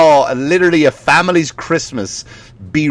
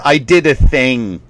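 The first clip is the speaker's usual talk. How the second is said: slow, drawn-out catchphrase; mock stock saying; slower than usual. Poster announcing news online, slow mocking imitation. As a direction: parody a coy online boast. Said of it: "certain sayings that they get".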